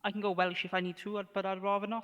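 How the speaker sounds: put-on lilting Welsh valleys accent. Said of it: "Your Welsh accent's actually not even that bad".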